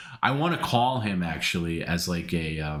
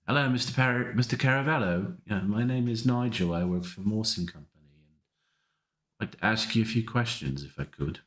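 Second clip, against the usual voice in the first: bad English accent; 4 semitones higher than usual. Host rehearses a prank call to Perry in a bad English accent. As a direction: pretend caller Nigel in a higher, hammed-up English accent. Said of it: "a bad English accent".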